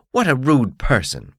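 haughty bug demanding his due; beetle voice. Acted. Beetle huffs at blacksmith.

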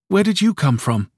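put-on high childlike voice; a small boy asking a stranger, high; child's question. A narrator's reading. Child asks grandmother.

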